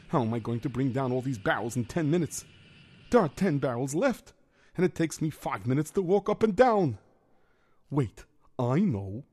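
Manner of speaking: put-on worried Yiddish-accented kvetching. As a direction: complain like a hapless schlemiel. Figure narrates his mishap.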